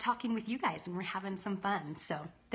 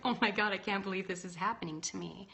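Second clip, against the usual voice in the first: laughing mock despair. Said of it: "was like".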